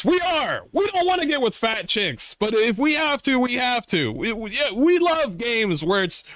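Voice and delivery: high, goofy dopey-gamer voice; mock gamer voice. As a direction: play a cheerful clueless gamer owning it. Mocking gamers agreeing to accusations.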